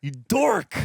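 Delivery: high, loud mock insult; loud playground-style taunt in fun; playful jeering. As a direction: join in the teasing with a loud jab. Joins in the mock name-calling.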